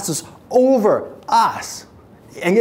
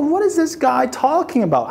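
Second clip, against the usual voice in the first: startled disbelief; 5 semitones higher than usual. Retold or imitated. Imagined worshipper's disbelief.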